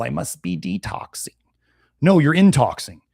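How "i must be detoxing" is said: softer mock voice rising at the end; sarcastic imitation with a questioning lift; mock whiny quote. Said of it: "and they say".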